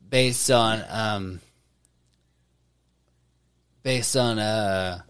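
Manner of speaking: tipsy, losing the thread, slurring. Real, not acted. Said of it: "I'm so drunk right now".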